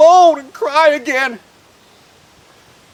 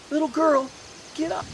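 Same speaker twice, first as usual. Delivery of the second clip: softer, gentle coaxing; tender; 3 semitones higher, 8 dB quieter than usual. A narrator's reading. Jesus waking the little girl, tender. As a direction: rouse a sleeping child softly.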